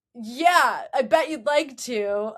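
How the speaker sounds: teasing, cocky comeback; flirty retort. Retold or imitated. Host acts Gibsie answering Claire on the field, flirting. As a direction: toss it back as a flirt. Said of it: "so he's flirting with her".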